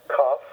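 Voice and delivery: "kaf" with an ah vowel; A as in father. Shown as a demonstration. Teacher modelling the letter name, kahf. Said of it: "kind of A as in father".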